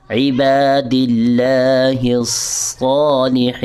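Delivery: عباد اللہ الصالحین drawn out slowly; slow recitation. Shown as a demonstration. Teacher reciting the corrected phrase. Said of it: "تو کیسے پڑھیں گے".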